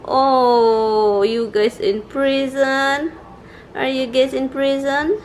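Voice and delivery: lightly cooing at the dogs. Real, not acted. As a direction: tease the dogs gently in a pet voice. Cooing at dogs behind gate.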